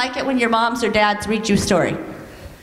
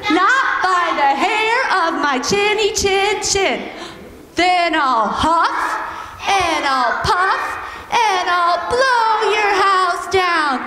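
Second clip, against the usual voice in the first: wolf and pig lines; 4 semitones higher, slower than usual. Acted. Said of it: "He says".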